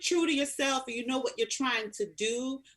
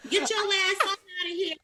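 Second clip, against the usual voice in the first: loud, higher, full attitude; sassy dismissal; 7 semitones higher, 3 dB louder than usual. Shown as a demonstration. Reality star dismissing the fan, with loud sass. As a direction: send them packing with sass. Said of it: "just say "Bye, Pumpkin".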